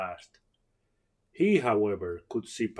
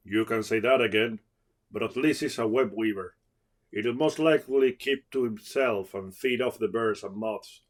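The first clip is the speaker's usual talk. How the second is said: a touch of firmness; firm; 3 dB louder than usual. Acted. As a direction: settle it steadily. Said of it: "Tachi said firmly".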